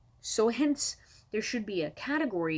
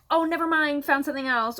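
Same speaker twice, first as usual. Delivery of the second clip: mock polite buyer; 7 semitones higher, 5 dB louder than usual. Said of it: "the courtesy ... to respond".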